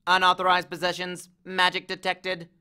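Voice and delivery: monotone machine announcement; automated alarm. A narrator's reading. Metal detector flags magic, robotic announcement.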